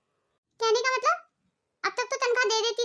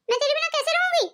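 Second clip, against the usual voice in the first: pleading; 5 semitones higher than usual. Acted. Mother pleading with leaving son.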